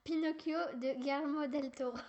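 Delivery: a light Spanish accent on the director's name. Shown as a demonstration. Child plays at a Spanish accent for the director's name. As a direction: roll out Guillermo del Toro with a mild Spanish accent. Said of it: "je vais sortir mon accent espagnol".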